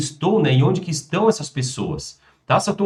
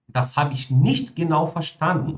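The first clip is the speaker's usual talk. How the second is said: slow German sentence, "nicht" given the main emphasis; stress on nicht; 2 semitones higher, slower than usual. Shown as a demonstration. Teacher demonstrates focus on negatives, slowly stressing "nicht". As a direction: lean on the negative word "nicht". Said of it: "Maior ali em palavras negativas".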